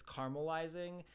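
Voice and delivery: "caramelizing" with the middle a dropped, CAR-mul-izing; two-syllable caramel. Shown as a demonstration. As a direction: say "caramelizing" the Southern Ohio way, as CARMUL-izing. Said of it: "that only has two syllables".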